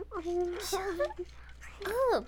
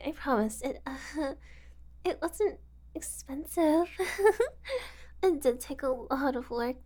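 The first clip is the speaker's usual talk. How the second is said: ordinary talk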